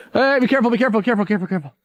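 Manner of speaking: alarmed warning. Real, not acted. Friend slipping on steep slope.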